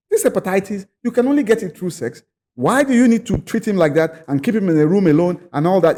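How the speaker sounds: mildly angry challenge, retold. Retelling an angry chief's protest over his isolation, mildly indignant. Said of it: "When he heard, he was angry".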